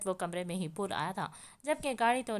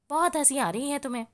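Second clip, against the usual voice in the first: a fast, loud, higher rebuke; angry snap; 6 semitones higher, 8 dB louder, faster than usual. Acted. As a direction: cut his laughter off sharply. Angry man snaps at laughing brother.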